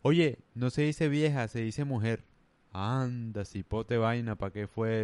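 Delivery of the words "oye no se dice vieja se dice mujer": slow mock-scolding correction; half-hearted imitation of a woman lecturing him; retold correction. A woman correcting him on a word, mild mock scold. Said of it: "una vieja me dijo".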